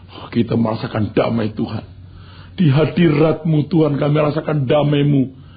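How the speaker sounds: a hint of a swooning worshipper; mock pious prayer. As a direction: imitate a sentimental prayer mockingly. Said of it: "tapi diganti dengan".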